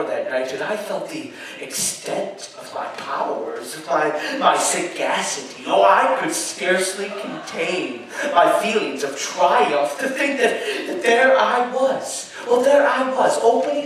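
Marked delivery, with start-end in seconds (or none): 5.7-13.8 high, loud words breaking into laughs; a madman cackling at his own cunning; triumphant laughter. Acted. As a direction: gloat and laugh through the words. Narrator gloats over his triumph.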